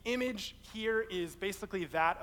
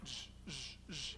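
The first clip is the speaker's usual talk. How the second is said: loopy buzzing noise; 6 semitones lower, 13 dB quieter than usual. Retold or imitated. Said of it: "he started going like".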